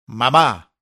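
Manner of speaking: put-on a girl shrieking for her dead mother. A narrator's reading. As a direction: shriek the word out. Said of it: "fue el chillido que llegó".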